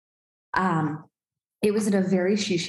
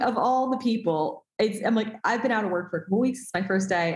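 exasperated complaint; 4 semitones higher than usual. Retold or imitated.

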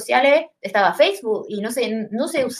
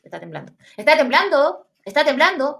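abuela repitiendo alarmada; 4 semitones higher than usual. Retold or imitated.

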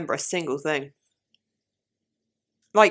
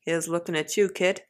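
attempted Bogart accent; 2 semitones lower, 7 dB quieter than usual. Partner trying Bogart's accent on request, badly faked. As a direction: have a hesitant go at Bogart's accent. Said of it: "I don't think I can do the accent".

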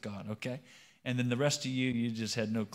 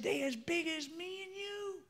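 slow, soft Cajun falsetto; Cajun accent; 6 dB quieter than usual. Acted. Thibodeau warning Boudreaux of the danger, Cajun accent. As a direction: drag it out high in comic Cajun. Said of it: "start talking like a Cajun".

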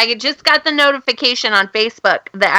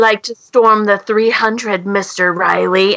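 sultry Eva Green. Retold or imitated. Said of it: "my most sultry Eva Green voice".

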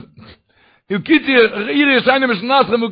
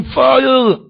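fire shout; 4 semitones higher, 5 dB louder, much slower than usual. Retold or imitated. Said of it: "גלאך האט געשריגן".

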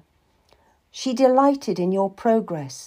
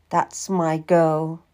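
slow, gently proud husband; 3 semitones lower, slower than usual. Acted. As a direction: say it slowly, with a touch of pride. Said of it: "said Will proudly".

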